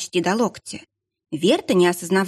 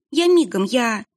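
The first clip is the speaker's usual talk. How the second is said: frantic; 5 semitones higher than usual. Acted. Panicked girl rushing.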